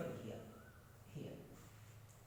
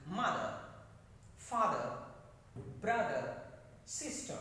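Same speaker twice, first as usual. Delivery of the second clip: MOTHER, FATHER, BROTHER, SISTER stressed on first syllables; extra force up front; 2 semitones lower than usual. Shown as a demonstration. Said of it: "Extra force is used".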